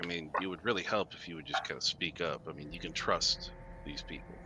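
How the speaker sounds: low, muttered aside under the breath. Voicing a character speaking to his brother: low, under his breath. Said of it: "low and under his breath to his brother".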